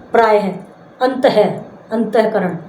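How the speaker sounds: प्रायः, अंतः, अंतःकरण with the visarga voiced as "ha". Shown as a demonstration. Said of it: "इसका उच्चारण है की बात ही होता है". (प्रायः, अंतः, अंतःकरण में विसर्ग का ह जैसा उच्चारण)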